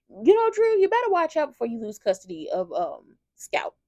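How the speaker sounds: sharp high call, then a warning; calling out Drew. Acted. Fan shouting a warning at Drew on screen. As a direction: shout his name across the room, then threaten.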